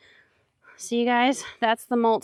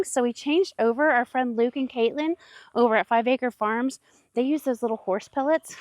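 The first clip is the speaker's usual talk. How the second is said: breathless from walking; out of breath. Real, not acted. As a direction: talk while short of breath. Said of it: "I'm out of breath".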